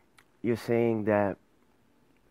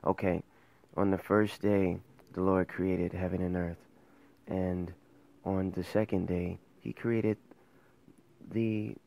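a touch of a droning Sunday-school teacher, softer; dull Bible teacher; 3 semitones lower, 4 dB quieter than usual. Retold or imitated. Mocking a boring Bible class for the critical viewer, a lightly droning mock teacher. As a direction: drone it like a bored lesson, lightly mocked. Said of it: "don't wanna hear a story like".

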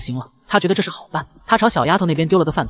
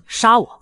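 raised pitch on a short question; puzzled echo question; 6 semitones higher, 3 dB louder than usual. A narrator's reading. Child questioning what his friend meant, puzzled echo. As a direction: ask it back in mild puzzlement. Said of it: "反问道".

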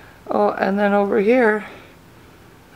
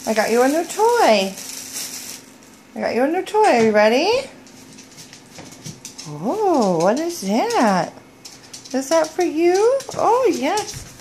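big swooping pet-talk intonation; excited doggy talk; 7 semitones higher than usual. Real, not acted. Owner shows dog a new toy, excited doggy talk. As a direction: hype up a surprise for your dog.

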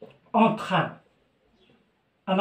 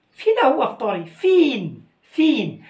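mock demanding question; 6 semitones higher, 5 dB louder than usual. Acted demanding husband.

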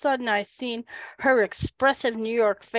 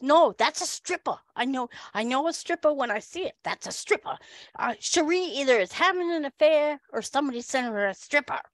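a hint of insistent New Yorker; lightly imitated New York accent, quick by the end; Long Island accent; 3 semitones higher, faster than usual. Woman contradicts her colleague, insistent Long Island accent. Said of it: "She is an Long Islander".

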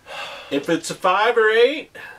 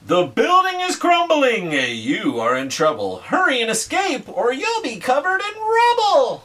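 dramatic riddle reading; 6 semitones higher than usual. Acted.

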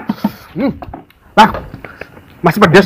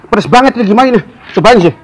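gasping through the heat; words squeezed out past burning chili; mouth burning from spicy food; 6 semitones higher, 3 dB louder than usual. Real, not acted. Eating very spicy noodles.

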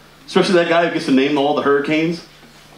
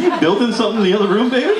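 raised, rising pitch, quick question; puzzled call that climbs at the end; calling to another room; 8 semitones higher, faster than usual. Acted. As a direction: call out to someone next door. Calling to girlfriend in other room.

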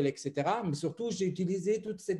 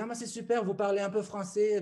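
higher, lightly voiced retold praise; delighted inspector; 4 semitones higher than usual. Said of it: "vraiment ravi".

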